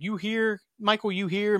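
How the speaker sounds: lightly voiced searching call; acted calling out. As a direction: imitate calling for someone who may be nearby. Acts out searching for Michael.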